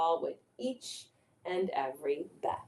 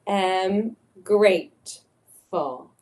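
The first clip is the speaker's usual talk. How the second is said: slow affirmation; slower than usual. Shown as a demonstration. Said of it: "Let's say that together".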